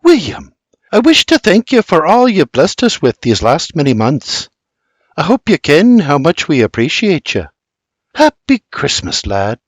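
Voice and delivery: a touch of motherly warmth. Acted. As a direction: thank the lad like a mother. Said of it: "with a motherly tone".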